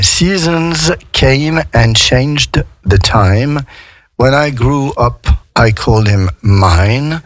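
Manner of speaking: slow, careful reading of the second verse. Shown as a demonstration. Teacher reading the verse slowly to French students. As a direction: read the verse slowly, word by word.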